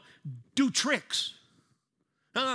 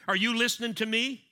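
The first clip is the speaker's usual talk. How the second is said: pointed, louder nagging question; exasperated wife; 4 semitones higher, 6 dB louder than usual. Retold or imitated. Wife scolding distracted husband, exasperated. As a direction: demand his attention, half-joking.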